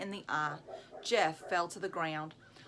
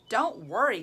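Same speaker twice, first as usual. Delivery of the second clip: exploded; 5 dB louder than usual. Acted. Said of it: "Colleen exploded".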